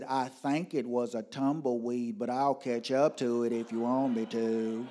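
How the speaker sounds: lightly voiced bus driver, measured delivery; a hint of a driver character; bus driver's reply. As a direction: answer as an easygoing driver.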